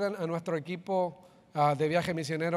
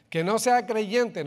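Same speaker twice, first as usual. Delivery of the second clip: "que no sea creyente" slow, with "sea" hit hard and louder; slow emphasis; 4 semitones higher, 5 dB louder, much slower than usual. Acted. Pastor stresses the key condition.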